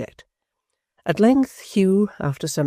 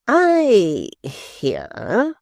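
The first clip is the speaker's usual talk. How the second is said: smoothly; 7 semitones higher, 5 dB louder than usual. A narrator's reading. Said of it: "he said smoothly".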